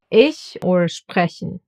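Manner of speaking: "ich or sprechen" with ch like a very soft H; German "ich", "sprechen", soft hissy ch, not throaty. Shown as a demonstration. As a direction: keep the CH light in "ich" and "sprechen". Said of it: "sounds like a very soft letter H".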